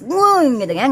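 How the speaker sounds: a playful nguing like a braking car; mock engine whine. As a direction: imitate a car whining as it brakes. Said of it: "remnya diinjek".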